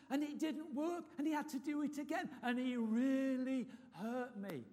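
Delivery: put-on old patient voice. Retold old patient complaining.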